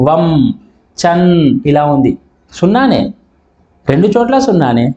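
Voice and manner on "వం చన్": వం held on m, చన్ held on n; closing consonants shown. Shown as a demonstration. Teacher contrasting written sunna with its sound, వం, చన్ held. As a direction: say వం, then చన్, lingering on each final nasal. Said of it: "పలికే విధానం ఎట్లుంది".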